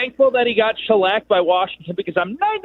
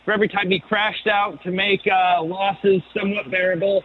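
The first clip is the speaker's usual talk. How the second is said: phone held away. Real, not acted. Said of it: "You gotta speak into the phone".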